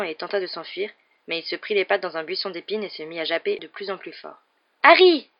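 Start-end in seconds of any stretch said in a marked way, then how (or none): 4.8-5.3 high, trumpeting cry of relief; ringing, relieved shout. A narrator's reading. Ron calling Harry at the light, ringing relieved shout. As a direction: call out loud and high, suddenly relieved. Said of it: "d'une voix soudain claironnante qui exprimait son soulagement".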